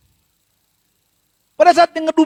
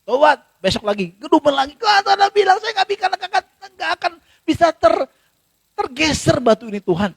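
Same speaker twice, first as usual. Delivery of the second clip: high-pitched grumbling complaint, tailing down; 4 semitones higher than usual. Acted. Man grumbling to God about the unmovable stone, grumbling. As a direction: grumble it out in protest. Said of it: "dia ngedumel".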